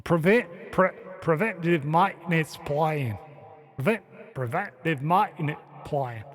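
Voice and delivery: amateur Boston imitation with Australian vowels; attempted Boston accent. Shown as a demonstration. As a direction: haltingly try out a Boston accent. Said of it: "Does that sound like Boston?".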